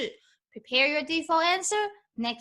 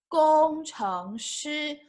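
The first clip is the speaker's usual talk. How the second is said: slow model word; 4 semitones higher, much slower than usual. Shown as a demonstration. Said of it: "teacher repeats the word slowly".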